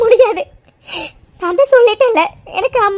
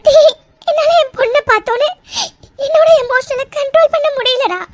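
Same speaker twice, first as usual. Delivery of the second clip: tearful; 3 semitones higher than usual. Acted. Mother tells son of her grief.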